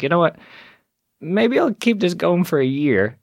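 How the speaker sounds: dream bigger as the idea takes hold; excited resolve. Retold or imitated. After the charity show succeeds, excited carried-away resolve.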